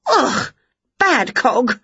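high, lively witch voice; bright eager witch teasing her pets; Winnie's voice. A narrator's reading. Witch quizzing the dog and Wilbur, high and lively.

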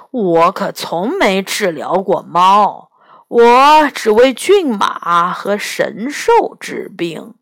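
slow, looking-down-on-it tone; disdainful. Acted. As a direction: sniff at the idea of a cat. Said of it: "他满脸嫌弃地说". (满脸嫌弃地慢慢说)

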